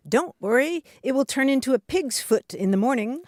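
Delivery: lightly cheerful, lifted reading; cheerful reassurance. Retold or imitated. Listener's letter quotes a dad comforting hurt children, mildly cheerful. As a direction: read it as a mildly chirpy dad. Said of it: "and said cheerfully".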